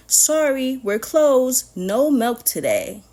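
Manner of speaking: loud, bold announcement; strike note. Acted. Cows announcing their strike, loud and bold. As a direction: post it like a picket sign.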